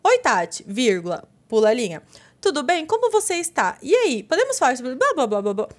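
mock-formal text read out, punctuation spoken; dictating a message. Friend mimicking a carefully written text to Tati, mock-formal. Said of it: "se eu mandar uma mensagem escrito".

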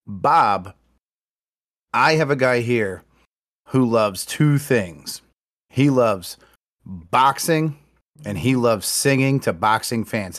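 slow, booming announcer build-up; ring announcer. Retold or imitated. Announcer introducing a surprise guest to the crowd, booming. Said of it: "And the guy's like".

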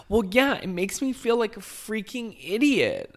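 very high, loud mock drunken wail; Tinsley Mortimer. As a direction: wail it like an overwrought daughter, hammed up. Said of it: "absolutely wasted and emotional".

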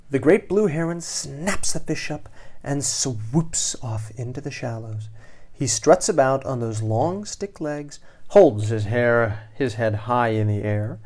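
put-on dramatic read-aloud for children; animated storyteller; story narration. A narrator's reading. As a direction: tell it with suspense, leaning on the action words. Reads picture book to children.

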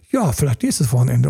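mock half-hearted put-off; non-committal. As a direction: act vaguely evasive, in an everyday pitch. Man putting partner off, acted. (gespielt ausweichend und unverbindlich)

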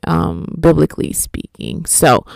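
talking through a yawn; words stretched by a real yawn. Real, not acted. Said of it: "Yawn came out of nowhere".

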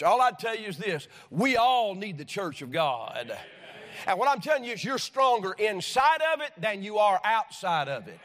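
emphatic, rising sermon delivery; preaching. Real, not acted. Preacher urging young people to value church, preaching emphatically. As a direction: preach it with conviction, driving each phrase home.

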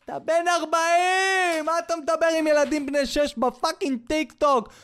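high, exasperated rant; outraged scolding. Real, not acted. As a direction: tear into the grown man in disbelief. Outraged scolding of imagined father. (נזיפה זועמת בקול גבוה)

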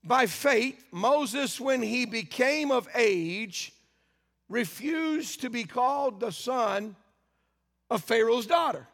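slow, solemn reading of scripture. Acted. Preacher slowly reads the Bible to the congregation. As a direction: read the verses slowly, weighing each line.

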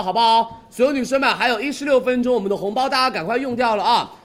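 loud, high urgent pitch; hard sell ad. Real, not acted. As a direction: rush them to buy now. Host urges viewers, red packets expiring. (激情催单吆喝)

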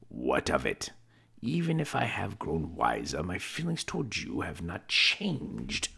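a man defending his greed; young Scrooge, defensive. Acted. Young Scrooge answers Belle.

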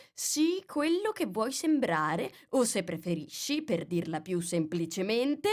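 a hint of a pompous duchess. A narrator's reading. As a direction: preach the moral like a smug old duchess. Duchess moralizing in story.

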